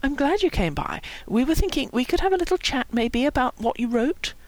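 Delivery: gentle, tiptoeing tone; gently. A narrator's reading. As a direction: broach it kindly and tentatively. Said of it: "Howie said gently".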